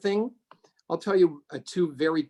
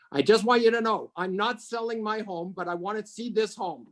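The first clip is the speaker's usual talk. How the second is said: higher-pitched voice, lightly playing a firm visitor; retold insistent woman; 7 semitones higher than usual. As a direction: lightly imitate a woman setting terms, pitched up. Retold woman at open house.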